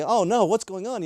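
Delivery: high-pitched mock-panicked exclamation; alarmed, pitched well up; retold alarm. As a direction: re-enact a startled driver mid-skid. Retold cry as car skids.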